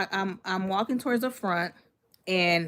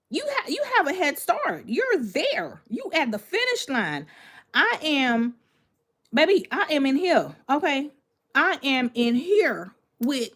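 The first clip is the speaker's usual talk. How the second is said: much higher, excited retold plea to a friend; frantic mock plea; 4 semitones higher than usual. Narrator voicing herself to crying friend Michelle, high and frantic. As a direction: squeal it like you're trapped with lions and tigers. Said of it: "I'm looking at Michelle like".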